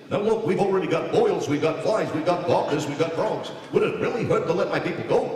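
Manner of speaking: lightly voiced New York Jewish comic kvetch; a hint of Jackie Mason complaining. Moses kvetching to Pharaoh like a New York comic. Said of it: "sounded like Jackie Mason".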